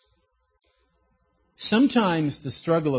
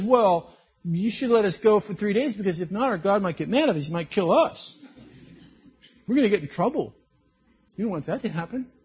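wimpy Moses; 4 semitones higher, 4 dB louder than usual. Retold or imitated. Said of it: "He wimped out".

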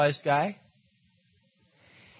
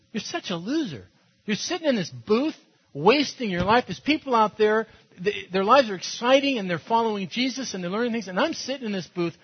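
higher, mounting self-reproach; inner voice nagging; 4 semitones higher, 3 dB louder than usual. Retold or imitated. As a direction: let the voice in his head get harsher as it goes. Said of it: "voiceover in his head".

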